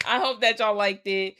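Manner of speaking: a perkier hopeful re-take; upbeat retry. Acted. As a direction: sell the wish with fresh cheer. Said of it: "Y'all probably hated this video".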